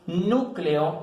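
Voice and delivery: "núcleo" drawn out, stressed on the U. Shown as a demonstration. Teacher gives an esdrújula example, slow and stressed. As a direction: slowly lean on the first vowel of "núcleo". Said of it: "en la U".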